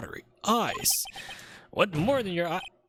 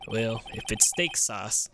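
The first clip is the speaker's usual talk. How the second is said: southern cowboy whoop. Acted. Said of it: "I've never met someone who talks like that".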